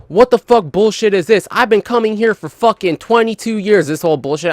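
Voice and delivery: mock outraged rant about the generator rule; indignant camper. Old-timer camper ranting at staff, mock indignant. Angry camper retold, RV guy.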